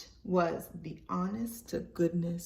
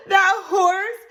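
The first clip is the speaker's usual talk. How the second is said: high, loud, slow scornful voice; mocking woman voice; 10 semitones higher, 10 dB louder, slower than usual. Virginia mocking Libby's old horse, high loud scorn.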